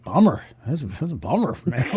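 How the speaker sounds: a lightly voiced laid-back Dude; slack, easygoing "bummer, man"; the Dude from Lebowski. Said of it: "all I could get out was the fucking Lebowski".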